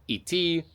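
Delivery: iti spoken as Russian ee-TEE, both vowels clear; Russian verb. Shown as a demonstration. Explaining Russian verbs of motion, iti said the Russian way. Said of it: "You have so many words about to go".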